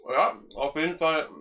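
talking with a full mouth; slow words around chewing; chewing while talking. Real, not acted. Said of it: "vollem Mund reden".

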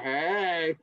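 flirty rabbit. Acted. Rabbit answers the cheerleader, flirty. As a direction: play a rabbit flirting back. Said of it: "animals flirting with each other".

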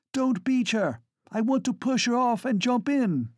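high, loud command; shout. Acted. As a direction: call out to the rowers. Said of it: "she shouts".

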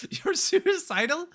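very high, drawn-out squeak of disbelief; incredulous question. Retold or imitated. Telling how the cheater played victim, incredulous high squeal. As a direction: squeal it slowly, fresh out of a laugh.

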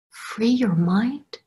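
slow, rising disbelief; incredulous. Retold or imitated. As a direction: echo it back, amazed. First reaction to the headline.

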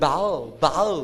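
"bowel" with no W sound; bowel with silent W. Shown as a demonstration. Teacher showing students the word, "bowel" with silent W. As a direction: say "bowel" slowly, leaving the W silent. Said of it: "W ไม่ออกเสียงค่ะ".

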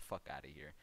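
muttered brush-off whisper; whispered aside. Real, not acted. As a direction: toss it off under your breath. Dismissive aside after quoting chat.

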